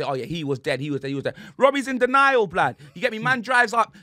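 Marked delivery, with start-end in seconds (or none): 0.0-1.4 mock resigned admission.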